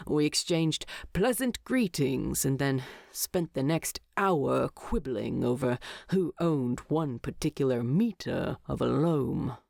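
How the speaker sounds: a hint of a gruff dwarf; lightly voiced Thorin. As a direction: read it as a weary Thorin complaining to Bilbo.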